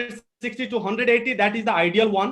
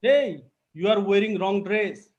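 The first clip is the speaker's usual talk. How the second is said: mom calling out a reproach, sharp rise on Hey; a mother pulling up her daughter, Hey set apart; scolding mom. Shown as a demonstration. Mom to daughter leaving for field work, scolding. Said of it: "your mom say this, like".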